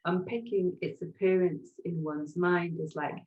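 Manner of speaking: measured poetry-reading delivery; poem reading. Acted. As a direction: read it as a poem, phrase by phrase. Reads her own poem aloud.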